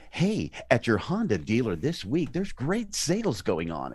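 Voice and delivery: upbeat car-dealer ad voice, rising; a chirpy Honda ad pitch, badly; ad read. Shown as a demonstration. Selling cars to radio listeners, mock ad announcer. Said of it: "I sound ridiculous. I don't have that voice".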